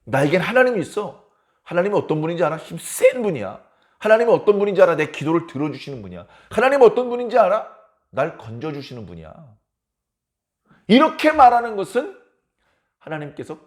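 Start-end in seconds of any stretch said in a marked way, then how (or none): 0.0-9.3 acted boast about God; eager questions, each answered with settled pride; proud boasting. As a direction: show off God with conviction. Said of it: "의인이 하나님을 자랑하는 겁니다".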